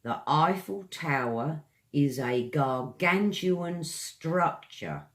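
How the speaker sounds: Eiffel Tower sentence read clearly, stress on gargantuan; example read. Shown as a demonstration. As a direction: read it as a model. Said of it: "Example sentence".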